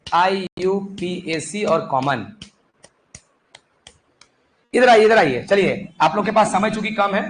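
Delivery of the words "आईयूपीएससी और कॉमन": very slow, spaced-out dictation. Real, not acted. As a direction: dictate at half speed for students writing it down. Dictating slowly for note-taking. (धीरे-धीरे लिखवाते हुए)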